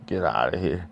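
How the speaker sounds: breathy whisper; whispered threat. Acted. Same line read again, whispered.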